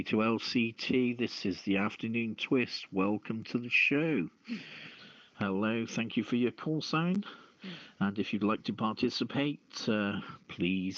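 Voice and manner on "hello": ordinary talk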